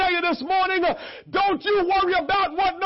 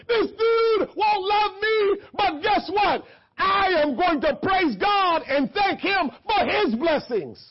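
defiant declaration; 3 semitones higher, slower than usual. Acted. Leah voiced defiant, praising.

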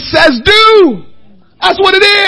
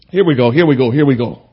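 hushed, much lower and softer, ending in a whisper; real, barely audible pleading; almost no voice left; overwhelmed; 7 dB quieter than usual. Real, not acted. Overcome in the Spirit.

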